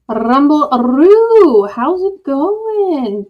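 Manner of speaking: slow, drawn-out attempt at an Australian accent; bad Australian accent. Streamer greeting a chat viewer in a bad Australian accent. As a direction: stretch the words in a clumsy Australian accent. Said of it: "My Australian accent has not gotten any better".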